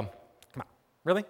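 hushed, unvoiced disbelief; sceptical whisper. Listener doubting the story, whispered scoff. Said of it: "you hear this and you go".

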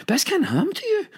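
high-pitched retold wail; imitated tearful disbelief. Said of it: "she's howling, crying".

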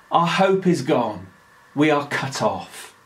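mild hopeless murmur, fading at the end; despairing inner voice. Retold or imitated. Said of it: "listening to a despairing voice from within".

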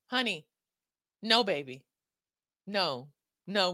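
loud, scolding auntie giving a word; an auntie lecturing the ladies about broke men; sassy auntie. Acted. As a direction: set him straight like a no-nonsense auntie. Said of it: "a word from Auntie Chloe".

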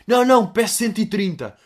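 comic acted protest; fat kid Ivo. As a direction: play a kid whining back a refusal. Acts Ivo refusing.

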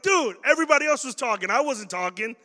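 indignant protest. Retold or imitated. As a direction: protest your innocence. Student protests to teacher.

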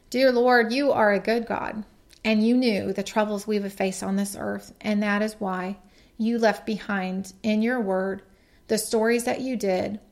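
earnest prayer voice, opening strong on the address; a gentle prayer to close the message; closing prayer. Acted. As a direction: pray to God for the listeners.

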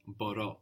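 μπορώ with a hard B at the start. Shown as a demonstration. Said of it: "hard B".

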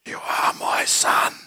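slow, raspy near-whisper; raspy Darth Vader voice. Retold or imitated. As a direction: rasp it out slowly like Vader revealing himself. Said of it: "I say in a raspy voice".

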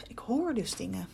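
slow, scared whisper; fearful whisper. Acted. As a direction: whisper it as if someone might hear. Alone in a creaky house.

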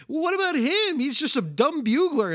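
high, lightly voiced kid. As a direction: ask it in a high, innocent kid voice. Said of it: "he's like".

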